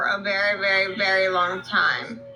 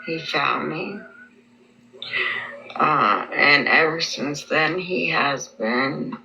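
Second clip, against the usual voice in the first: slow, lower, muffled by gauze; gauze in mouth; 4 semitones lower than usual. Real, not acted. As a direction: struggle to talk past the gauze. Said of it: "I have gauze in my mouth".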